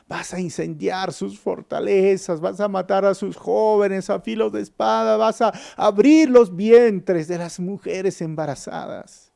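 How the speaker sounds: grieving prophet's rising warning; rising lament. Retold or imitated. Eliseo lists coming atrocities.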